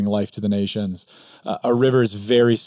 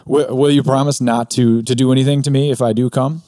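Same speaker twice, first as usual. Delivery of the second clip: put-on mildly scared higher girl's voice, stumbling on will; frightened Jill; 4 semitones higher, 5 dB louder than usual. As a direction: ask timidly, half afraid. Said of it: "said Jill".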